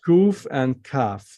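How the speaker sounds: "Kuf" with an oo vowel, "kaf" with an ah vowel, slowly; drawn-out "Kuf and kaf", separating the vowels. Shown as a demonstration. Teacher to student, slowly separating kuf and kaf. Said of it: "This is kaf in Hebrew".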